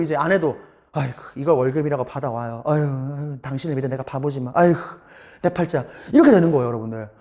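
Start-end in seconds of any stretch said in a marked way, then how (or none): 0.9-5.8 low, soft sighing grumble; lamenting wife. Retold or imitated. Wife bemoaning her husband's worthless pay, lamenting. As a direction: sigh it out as a disheartened wife.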